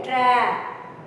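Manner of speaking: TRAP with a long, open ya vowel; ya sound in trap. Shown as a demonstration. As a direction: demonstrate TRAP, stretching the A and falling. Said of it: "See here".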